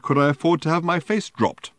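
loud and high, affronted; indignant demand. Acted. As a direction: demand it, offended. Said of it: "he demanded".

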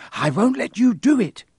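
high, loud, trembling resolve; defiant shout. Acted. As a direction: stand your ground, shouting. Neville defiant.

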